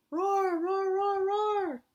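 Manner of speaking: high, loud roaring dragon. Shown as a demonstration. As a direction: roar like a playful dragon. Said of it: "but how would a dragon say it".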